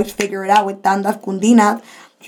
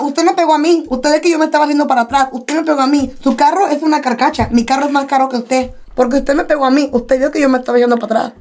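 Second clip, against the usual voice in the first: higher-pitched, indignant Spanish protest; retold angry argument; 5 semitones higher, faster than usual. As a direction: argue back heatedly, retelling the row. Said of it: "I was just so angry".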